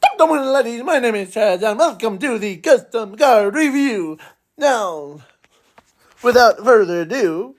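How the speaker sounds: a pumped-up Scottish show host greeting; over-the-top Scottish welcome; Scottish accent. Acted. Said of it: "he Scottish accent".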